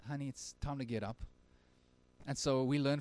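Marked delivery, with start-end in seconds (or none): 0.1-1.2 put-on soft, gentle wake-up call to a child; very quiet. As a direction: murmur it tenderly to a sleeping girl. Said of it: "very quietly".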